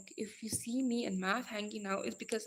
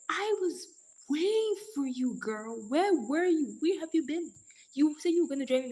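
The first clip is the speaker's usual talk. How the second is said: loud, high, playful telling-off; loud mock scolding; 6 semitones higher, 6 dB louder than usual. Real, not acted. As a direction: scold the late friend, half joking. Mock-scolding a late viewer.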